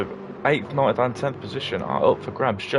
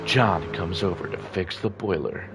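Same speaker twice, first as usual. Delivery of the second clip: slow, soft seductive narrator voice; husky narrator reading a steamy scene; sultry narrator; 4 semitones lower, 6 dB quieter than usual. Retold or imitated. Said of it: "you hear them and they're like".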